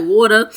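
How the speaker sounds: "water" with a New Jersey vowel; New Jersey accent. Shown as a demonstration. Vlogger showing her accent on "water", New Jersey sound. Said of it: "I got a New Jersey accent".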